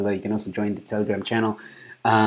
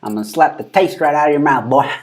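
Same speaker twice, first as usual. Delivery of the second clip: raised, louder catchphrase imitation; mock threat; 4 semitones higher, 6 dB louder than usual. Streamer repeating the woman's line, playful mock threat. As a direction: throw out her threat for laughs.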